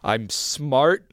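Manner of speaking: firmer, audible self-affirmation in a low voice; like you mean it. Shown as a demonstration. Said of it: "say it like you mean it".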